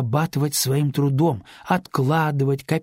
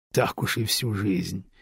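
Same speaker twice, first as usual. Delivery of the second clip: lower, slow, amused doubt; doubtful, hiding a smile; 4 semitones lower, 4 dB quieter than usual. Acted. Father gently doubts the girl's vow, slow and amused. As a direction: tease her gently, holding back a smile. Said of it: "усомнился Радислав, пряча улыбку".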